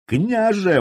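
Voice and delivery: high, loud wailing appeal; wailing cry. Acted. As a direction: cry out to the prince. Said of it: "возопил боярич".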